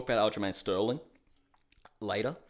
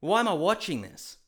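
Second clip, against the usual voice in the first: exasperated inner voice; 7 semitones higher, 5 dB louder than usual. Retold or imitated. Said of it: "And then I'm thinking".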